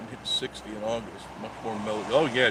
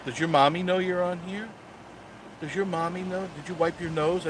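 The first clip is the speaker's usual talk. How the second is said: mock baby talk; 6 semitones higher than usual. Mocking a kid commenter.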